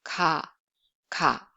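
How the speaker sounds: "Ka" with little air, no tenseness; plain Korean k in "Ka"; plain lax k. Shown as a demonstration. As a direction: say "ka" low, between k and g. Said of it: "no aspiration".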